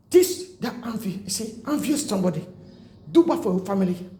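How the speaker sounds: rising into a pulpit rebuke; preaching at full force. Real, not acted. Preacher scolding false churches, building to a fervent rebuke.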